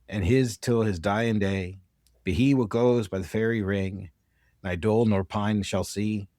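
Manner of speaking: a light, self-admittedly bad Scottish accent reciting a rhyme; attempted Scottish accent. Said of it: "forgive my horrible pronunciation of this poem".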